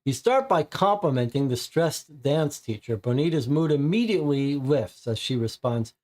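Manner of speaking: card read aloud as a storyteller; story narration. Acted. Game host narrating the visit to the club, storyteller voice. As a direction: narrate the scene like a game master.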